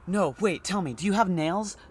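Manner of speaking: suddenly curious, calling through the door; man behind door. Acted. Man behind the door asking the doctor about nails, high and eager.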